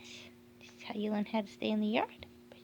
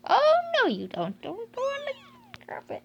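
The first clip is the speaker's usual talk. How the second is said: urgent warning; 10 dB louder than usual. Real, not acted. Stopping puppy from carpet.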